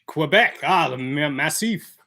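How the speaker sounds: French accent, badly done; hammed-up French accent. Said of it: "It's a terrible French accent".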